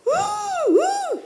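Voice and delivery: high mock wails of a little child; imitating a crying child. Retelling the crying child in class, high mock wail. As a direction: act out the four-year-old's sobs. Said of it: "uma criança de quatro anos começou a chorar".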